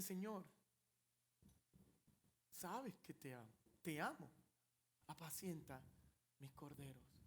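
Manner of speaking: soft, low, ashamed answer; hushed reply. Acted. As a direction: answer humbly, almost under your breath.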